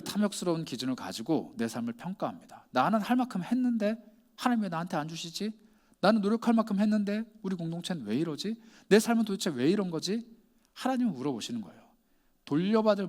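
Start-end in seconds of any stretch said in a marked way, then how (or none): 2.7-10.3 higher-pitched mock grumbling; imitated complaint. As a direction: voice a believer's puzzled complaint, pitched up. 불평하는 신자의 말을 흉내. (높은 음으로 불평을 흉내 내는 말투)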